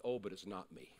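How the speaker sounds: low, soft, subdued reply; very quiet. Retold or imitated. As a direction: answer quietly, well below speaking level. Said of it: "he says very quietly".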